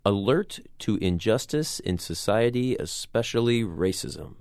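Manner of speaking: formal dictionary reading voice; Oxford English Dictionary voice. Shown as a demonstration. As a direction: read it like a formal definition. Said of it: "in my best Oxford English Dictionary voice".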